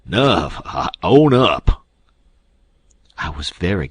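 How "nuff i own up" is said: choked, gasping and slow. A narrator's reading. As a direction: gasp it out, half strangled. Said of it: "then he gasped out".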